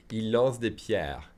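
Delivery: slow, careful teacher read; slow classroom demo; slow model sentence. Shown as a demonstration. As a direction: spell it out slowly for the class. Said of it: "teacher models sentence slowly".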